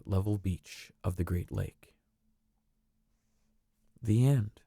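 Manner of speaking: gentle storybook reading voice; storybook narrator. A narrator's reading. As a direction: read it like a bedtime story. Reads a storybook aloud.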